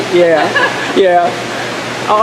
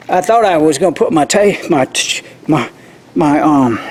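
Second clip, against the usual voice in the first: too cold to talk. Real, not acted. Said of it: "can't even talk".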